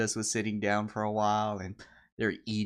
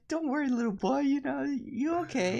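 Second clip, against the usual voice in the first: tag. Retold or imitated. Acting out soothing the crying boy.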